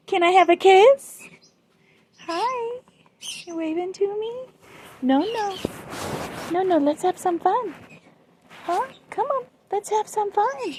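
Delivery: high cooing talk to a bird; pet talk. Real, not acted.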